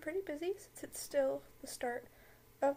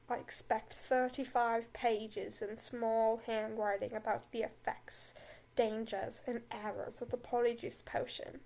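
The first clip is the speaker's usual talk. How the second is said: assign homework like a bored, cold professor; deep drawling Snape; 3 semitones lower than usual. Acted. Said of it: "in his deep, drawling voice".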